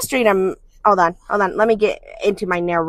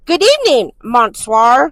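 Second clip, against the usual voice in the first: mock vampire greeting; 3 semitones higher, 6 dB louder than usual. Shown as a demonstration. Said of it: "Say "bonsoir".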